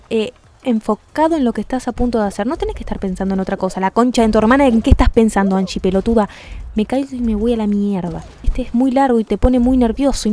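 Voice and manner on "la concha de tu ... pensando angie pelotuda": loud cursing at herself; angry cursing. Real, not acted. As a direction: scold yourself loudly. Se insulta tras un error. (insulto enojado en voz alta)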